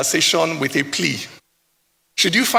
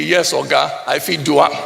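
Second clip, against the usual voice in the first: eager Pidgin yes; 3 semitones lower than usual. Retold or imitated. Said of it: "their instinct is to answer you immediately".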